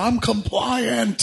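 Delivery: high, drawn-out parody roar of obedience; mock Hulk outburst. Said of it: "he doesn't Bruce Banner it".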